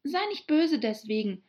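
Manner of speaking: put-on high girl voice, placating; soothing. A narrator's reading. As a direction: coax someone out of their anger. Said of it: "sagte Alice besänftigend". (besänftigend, mit erhöhter Stimme)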